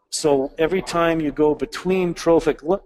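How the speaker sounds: hiccup cutting the word off. Real, not acted. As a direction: caught by a hiccup mid-word. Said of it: "excuse my hiccups again".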